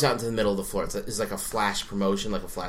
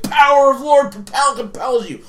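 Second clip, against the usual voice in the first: loud, high, garbled mock chant; hammy exorcist priest; 9 dB louder than usual. Priest repeats it over the gathering crowd, mock exorcism shout. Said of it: "And he's like".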